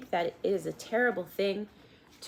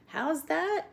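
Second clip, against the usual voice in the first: shouted; 11 semitones higher than usual. A narrator's reading. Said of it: "shouted Meg".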